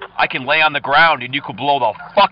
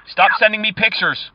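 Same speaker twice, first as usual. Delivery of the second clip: louder, fed-up scolding; mock angry; 3 semitones higher, 4 dB louder than usual. Caller scolding scammer Anna, mock angry and louder. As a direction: tell her off like a jilted ex.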